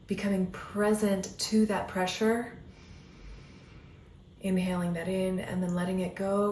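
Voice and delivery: soothing breath-by-breath guidance; guided meditation. Acted. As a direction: ease the listener into stillness, one breath at a time.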